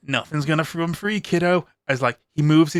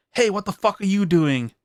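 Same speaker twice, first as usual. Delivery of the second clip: put-on light Irish accent, a raised startled shout; a hint of a surprised Irish bloke; 5 semitones higher than usual. Stranger in an Irish accent catching the vampire feeding, startled. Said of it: "in the strange Irish accent".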